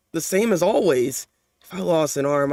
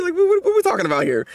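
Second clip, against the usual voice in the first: exasperated; 10 semitones higher than usual. Real, not acted. Exasperated at the manga scene.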